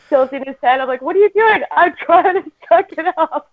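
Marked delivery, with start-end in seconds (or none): 1.0-1.6 high-pitched, incredulous parent; retold bewildered question. Parent to son tilting his head, high bewildered question. Parent puzzled by son's antics. 1.7-3.5 put-on high, slow kid voice; imitated small son. Son answering parent while fighting tears, high slow child voice.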